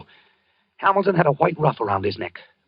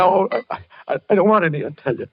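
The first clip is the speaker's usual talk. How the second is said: agitated refusal; 4 semitones higher than usual. Acted.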